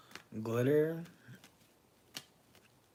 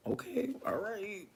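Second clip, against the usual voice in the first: whisper; 8 semitones higher, 6 dB quieter than usual. Real, not acted. Recovering from laughter.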